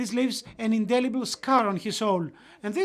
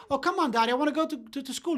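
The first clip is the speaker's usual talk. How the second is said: higher-pitched pleading with dad; protesting child; 5 semitones higher, much faster than usual. Retold or imitated. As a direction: act out a boy objecting to his father. Acts out himself protesting to father.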